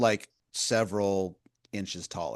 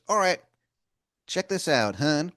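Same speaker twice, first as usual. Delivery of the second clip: wizard voice; 7 semitones higher, 3 dB louder than usual. Acted. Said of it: "he goes".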